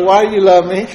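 laughing question. Retold or imitated. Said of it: "you ever ask Charlie".

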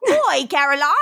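hammed-up Cockney call; mock Cockney British accent. Host imitates Steve calling Caroline, mock Cockney accent. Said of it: "starts talking in a British accent".

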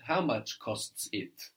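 How much costs it said slowly, each word apart; teacher's slow literal gloss of How much costs it. Shown as a demonstration. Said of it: "This is what we say in German".

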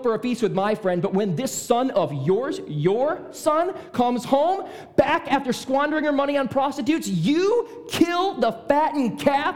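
high, outraged accusation; very angry. Acted. Older brother accusing his father over the fattened calf, very angry. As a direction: build to a furious, stretched-out accusation. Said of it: "as angry as the second time".

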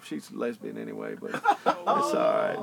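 lightly voiced Clinton gossiping; Bill Clinton voice. Keeps joking as Clinton for his laughing friend. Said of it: "in a Bill Clinton voice".

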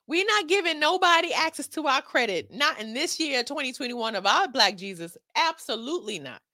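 loud, scolding auntie giving a word; an auntie lecturing the ladies about broke men; sassy auntie. Acted. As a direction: set him straight like a no-nonsense auntie. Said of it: "a word from Auntie Chloe".

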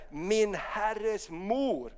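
quiet reverent quote; hushed awe. Acted. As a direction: breathe it out in wonder. Hon säger.

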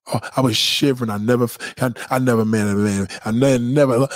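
tripping over never in a daze; stuttering. Acted. Woman gushing to her friend about last night, stammering. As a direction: stammer out I never from being overwhelmed. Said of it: "I'm stuttering right now".

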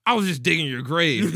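high, loud hammed-up villain yell; manic shout. Husband swinging a shovel at his wife, manic shout.

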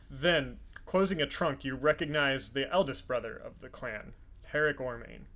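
measured descriptive storytelling; game master narration. Acted. Game master revealing a familiar clan to a player, measured narration. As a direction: reveal the scene piece by piece.

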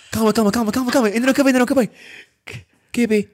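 put-on high, slurry drunk friend; mock drunk voice. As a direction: play the tipsy pal insisting. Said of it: "Tu dizes".

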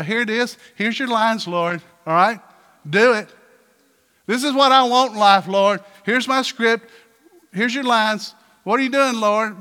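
bossy, emphatic orders to God; frustrated demanding. Acted. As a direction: hand out instructions like an impatient director. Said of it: "we get upset and frustrated".

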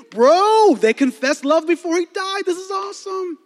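high, loud thrilled shout; preacher hyped about the movie, shouting; excited. Real, not acted. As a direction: cheer like your team just won.

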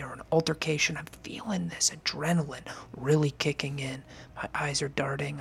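whispered, tense storytelling; a nervous whispered build of dread; hushed scary narration. Acted. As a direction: breathe it out like a campfire horror tale.

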